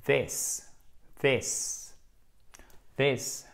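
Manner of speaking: "This" with a short i, not "these". Shown as a demonstration. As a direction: clip the vowel of "This".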